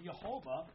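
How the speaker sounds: Yehovah with a Y and stress on ho; Hebrew pronunciation. Shown as a demonstration. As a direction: say Yehovah, yeh-HO-vah. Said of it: "That's where his word comes from".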